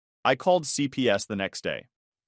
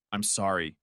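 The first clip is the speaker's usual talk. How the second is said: voice breaking; 4 semitones lower, 5 dB quieter than usual. Acted. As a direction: let the voice crack with tears. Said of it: "he said, voice breaking".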